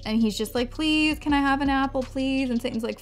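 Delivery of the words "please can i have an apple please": put-on whiny drunk toddler. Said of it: "Jack is this whiny, obnoxious two-year-old".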